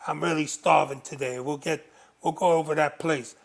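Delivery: the speaker lightly voicing a mob boss, only a hint of a put-on; a mild wiseguy voice that stays close to his own; gangster voice. Retelling to the host how his boss talked, in a light gangster voice. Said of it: "he would have that gangster voice".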